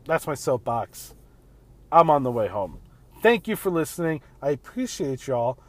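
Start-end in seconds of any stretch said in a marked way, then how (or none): 4.4-5.6 said weird. Real, not acted. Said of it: "I fucking said that weird".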